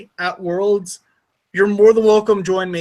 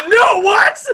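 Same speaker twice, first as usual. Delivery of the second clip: high, loud, shocked "No, what?"; shocked disbelief; 13 semitones higher, 4 dB louder than usual. Retold or imitated. Waking up after drinking, hearing the story, shocked high yelp. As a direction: yelp it out in horrified surprise. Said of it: "And I was like".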